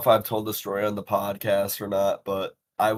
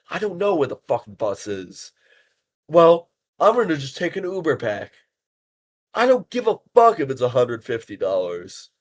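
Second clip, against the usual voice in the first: a light, mock Boston accent, higher and louder; hint at a thick Boston accent while ranting; half-hearted Boston accent; 5 semitones higher, 8 dB louder than usual. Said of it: "imagine the most thick Boston accent".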